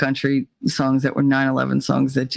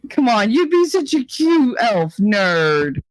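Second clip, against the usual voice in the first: high, gushing wheedle; playful coaxing; 6 semitones higher, slower than usual. Real, not acted. Coaxing a pal to dress as an elf, wheedling. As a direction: sweet-talk him, swooping up on cute.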